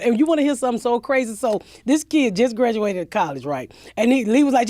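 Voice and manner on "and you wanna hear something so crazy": usual speaking voice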